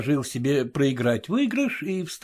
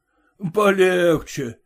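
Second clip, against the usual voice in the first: slow, mocking drawl of polegche; mocking echo; slower than usual. Merchants mocking the guest at cards, slow teasing drawl. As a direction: stretch "Полегче" out slowly to mock him. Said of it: "передразнили его".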